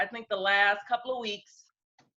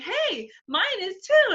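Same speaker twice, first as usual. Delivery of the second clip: mock excited; 11 semitones higher, slower than usual. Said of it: "I'm like".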